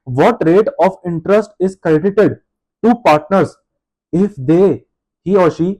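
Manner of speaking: reads the question out word by word; dictating the question slowly to the class; slow question reading. Acted.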